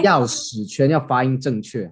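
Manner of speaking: slow, careful 钥匙圈 with each syllable clear; careful pronunciation. Shown as a demonstration. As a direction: say 钥匙圈 slowly and precisely.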